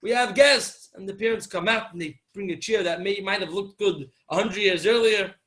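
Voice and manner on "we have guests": put-on mildly excited, higher and louder kids' call; retold happy kids announcing a visitor; happy children. Kids telling parents they have guests, happily. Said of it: "the kids come really happy".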